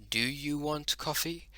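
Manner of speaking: "Do you want coffee?" with a rising question tune; question rise. Shown as a demonstration. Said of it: "a heightened tone at the end to signify that it is a question".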